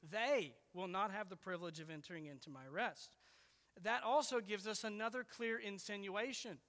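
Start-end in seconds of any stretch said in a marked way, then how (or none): 0.1-3.1 single out "they", then let the sentence fall; stress on THEY. Shown as a demonstration. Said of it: "when you read the verse with that emphasis".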